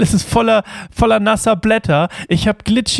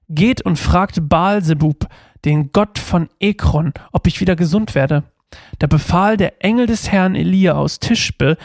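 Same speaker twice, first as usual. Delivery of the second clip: measured, steady Bible reading aloud; scripture reading. Acted. Youth pastor reading Second Kings to listeners, measured reading. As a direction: read the verses out clearly to the group.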